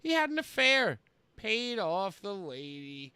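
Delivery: theatrical read-aloud with sudden swells; Chris Jericho. Acted. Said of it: "Here's Jericho. Quote".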